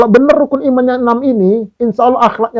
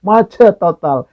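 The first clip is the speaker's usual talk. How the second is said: laughing. Real, not acted.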